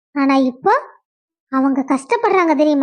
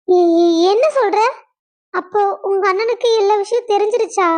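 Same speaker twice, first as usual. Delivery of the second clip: shocked disbelief; 3 semitones higher than usual. Acted. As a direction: caught off guard, gasping out the question. Sister-in-law shocked by revelation.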